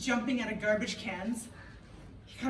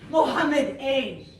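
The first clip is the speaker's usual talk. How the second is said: loud, high classroom commands; teacher voice; 4 semitones higher, 6 dB louder than usual. Retold or imitated. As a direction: call out each boy to keep order.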